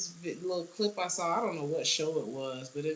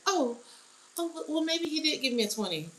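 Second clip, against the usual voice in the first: sheepish backpedal; 10 semitones higher than usual. Retold or imitated. Karen backpedals when caught.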